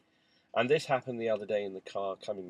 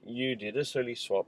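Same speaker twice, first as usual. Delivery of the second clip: teasing; 5 dB louder than usual. Retold or imitated. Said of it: "started teasing him".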